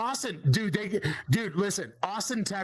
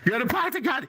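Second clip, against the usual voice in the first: higher-pitched Boston accent demo; 4 semitones higher, faster than usual. Shown as a demonstration. Comic driving the example home, Boston accent. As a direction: play up the Boston R-less vowels. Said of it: "you know the Boston accent where it's like".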